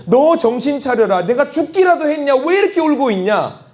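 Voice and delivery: 높은 목소리로 천천히 꾸짖는 하나님; 정신 차리라고 다그치듯; 하나님의 꾸짖음. Retold or imitated. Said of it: "마치 하나님께서 자기에게 하는 것처럼". (울고 있는 엄마를 꾸짖는 하나님, 높고 단호한 목소리)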